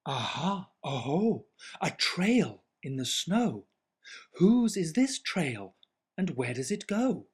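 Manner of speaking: put-on Gruffalo's child. Gruffalo's child voiced in story.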